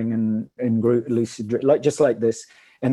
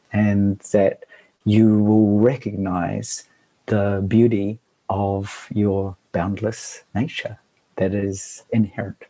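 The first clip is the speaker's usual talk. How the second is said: poem recitation. Acted. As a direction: recite it gently and unhurried. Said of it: "I wrote a poem about it".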